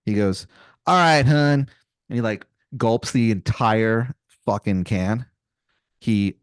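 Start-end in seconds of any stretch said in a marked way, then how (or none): 0.9-1.7 lightly hammed Maryland accent; a touch of bad Maryland twang; Wizard of Baltimore, Maryland accent. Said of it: "he has the worst Maryland accent".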